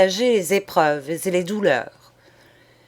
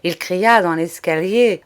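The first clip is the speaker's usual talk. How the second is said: ordinary delivery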